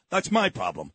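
"my" stressed, the phrase dropped low. Real, not acted. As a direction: lean hard on "my", low and firm. Contrasts her problem with mine.

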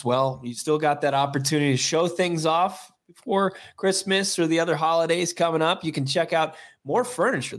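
cheerful holiday sale pitch. Acted. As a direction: pitch it like a furniture ad. Sponsor read for More Furniture.

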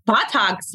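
Botox said like "buttocks", BAH-tahks; client's misheard word. Retold or imitated. Retelling the British client's request, Botox sounding like buttocks. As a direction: say Botox with an open first vowel, nearly buttocks. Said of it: "but he's here for Botox".

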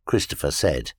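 ordinary delivery

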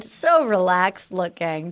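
slow relaxed. Shown as a demonstration. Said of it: "just the most chilled".

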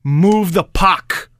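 slow, emphatic mock call for the puck; imitated Kessel demand. Host acting out Kessel mouthing at his teammate, drawn-out insistent call. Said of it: "you see Kessel mouth as clear as day".

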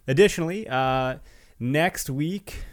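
winded, short of air between words; out of breath. Real, not acted. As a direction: talk while catching your breath. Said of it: "catch my breath here".

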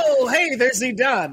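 high, laughing white guy voice; Chappelle white guy voice. Retold or imitated. The speaker redoes his white guy voice, high and laughing. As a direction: chirp it like a goofy white guy. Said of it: "Dave Chappelle's white guy voice".

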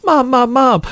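high-pitched mock-urgent calling. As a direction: imitate a kid calling for Mom. Boy runs back to mom.

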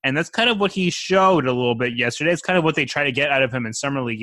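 ordinary delivery

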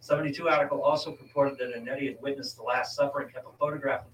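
article read out to a co-host; reading aloud. Real, not acted. Host tells co-host who built the chronovisor, reading aloud. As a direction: read it from the page, steady and informative.

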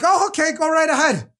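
high, breezy mock airport guard waving him through; chirpy pushover official; mock agreeable guard. Airport guard to the migrant, a high mock-breezy wave-through. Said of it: "And they're like".

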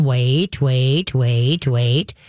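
nagging "Wait, wait, wait, wait" over and over; anxious string of "wait"s; repeated command. Shown as a demonstration. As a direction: show the wrong way, repeating the cue. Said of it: "don't keep repeating".

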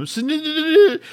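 words stuck in her throat, high and tense; panicked stammer; stuttering. Retold or imitated. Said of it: "it's stuck in her throat".

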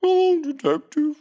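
high, slow creepy puppet voice; Jigsaw puppet voice. Retold or imitated. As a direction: do the creepy Saw doll. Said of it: "I don't even remember what it sounds like".

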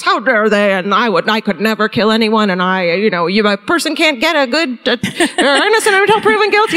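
lightly voiced old-fashioned man; a hint of an old-timey radio voice. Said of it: "like, old-timey voice".

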